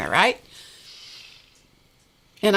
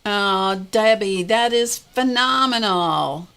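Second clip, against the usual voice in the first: delighted praise; 3 semitones higher, 3 dB louder, slower than usual. Real, not acted. Congratulating Debbie on cancer-free bell.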